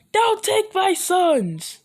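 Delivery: high, loud, slow desperate plea; mother screaming at Goku to leave her sons; desperate cry. Acted. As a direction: cry out to stop them taking her sons. Chi-Chi begs Goku.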